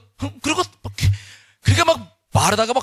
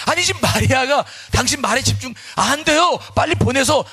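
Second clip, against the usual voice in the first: angry complaint; 7 semitones higher than usual. Acted. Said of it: "예수님께도 막 화를 내는 거야".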